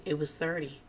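soft, flat correction under the breath; quietly. Retold or imitated. Ramona quietly correcting the square footage, soft aside. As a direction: say it quietly, almost to yourself. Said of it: "Ramona says kinda quietly".

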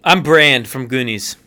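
lightly voiced southern Brand. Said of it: "that accent he was just doing".

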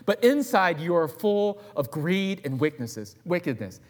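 high, loud rebuke; Jesus rebuking. Acted. Jesus confronting the Pharisees, high and loud. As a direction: call out the Pharisees sharply. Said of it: "the Lord Jesus said to him".

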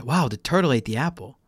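quick, mild wonder with "turtle" lifted; slight lift on "turtle", falling on "apple"; said to an adult. Shown as a demonstration. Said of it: "like, not to children".

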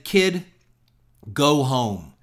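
lightly voiced cynical producer sending the kid home; blunt advice. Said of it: "and he was real blunt".

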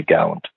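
"gallant" stressed on the first syllable; another common pronunciation. Shown as a demonstration. Singer allowing a variant of his surname, "gallant" stressed up front. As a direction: say "gallant" as GAL-unt, weak second syllable. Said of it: "some people say".

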